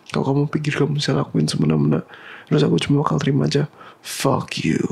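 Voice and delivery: angry. Acted. Angry confrontation with girlfriend.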